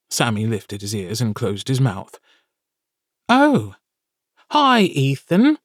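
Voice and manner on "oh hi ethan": high, squeaky little familiar; high creature voice. Acted. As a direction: pitch it way up like a small imp. Sammy greets Ethan.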